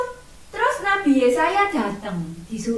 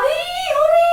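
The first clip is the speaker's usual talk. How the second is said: much higher, louder mock cheer; happy cheer; 7 dB louder than usual. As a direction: squeal it like a giddy child. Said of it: "seneng, ketawa-ketawa".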